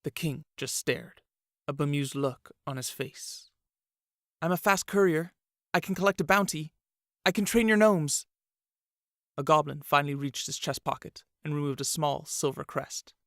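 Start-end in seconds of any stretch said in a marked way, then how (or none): 4.4-8.2 higher, louder, faster desperate plea; frantic pleading. A narrator's reading. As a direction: blurt out every use you have, rising in panic. Peter pleads ever more desperately.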